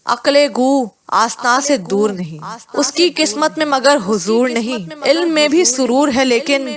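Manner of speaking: measured Urdu poem recital, each line lifted; شعر پڑھنے کا انداز; reciting verse. A narrator's reading. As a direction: recite the couplets like a mushaira poet. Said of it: "دل نے یہ اشعار پڑھے".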